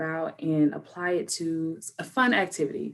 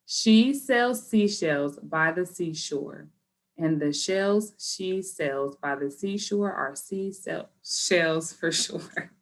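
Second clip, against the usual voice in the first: slow, each word placed deliberately; careful practice run; slow careful retry; slower than usual. Shown as a demonstration. Teacher practicing the twister again, slow and careful. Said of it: "let's do it one more time".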